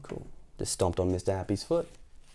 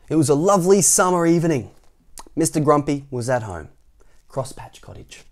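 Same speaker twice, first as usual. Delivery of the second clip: story narration; 3 semitones higher, 6 dB louder than usual. A narrator's reading. Narrator reads Mister Grumpy to young listeners, animated storytelling. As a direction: read a picture book to children. Reads the picture book aloud.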